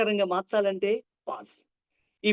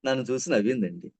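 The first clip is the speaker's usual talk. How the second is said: a beat of silence, then a low drop; pause before the punchline; 7 semitones lower than usual. Shown as a demonstration. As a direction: hold a pause, then నన్ను చూసి నవ్విందండి dropped low. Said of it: "pause".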